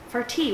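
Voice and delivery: "farty" softly, with a crisp T; mock-dainty. Shown as a demonstration. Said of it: "with your little pinky in the air".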